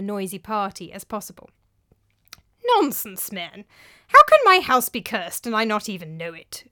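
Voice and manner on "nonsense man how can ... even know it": objecting. A narrator's reading. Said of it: "objected Theopropides".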